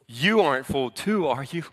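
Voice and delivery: mildly condescending, doubting question. Acted. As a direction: lean on YOU, talking down a little. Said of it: "the condescending nature".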